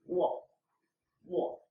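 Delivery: "我" short, at the bottom of the voice; shortened third tone. Shown as a demonstration. Teacher demonstrating the lowest point, shortened third tone on "我". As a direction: say "我" low and brief, no rise. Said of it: "just pronounce the lowest point of your voice".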